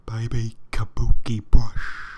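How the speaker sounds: slow breathy ASMR whisper; inaudible whisper. Shown as a demonstration. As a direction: whisper it slowly close to the mic. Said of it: "Some inaudible whispers up in here".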